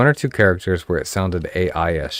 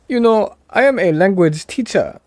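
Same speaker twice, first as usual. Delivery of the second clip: high, loud put-on African accent; hammed-up African accent, calling out; mock African accent; 10 semitones higher, 6 dB louder than usual. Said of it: "This is my African accent".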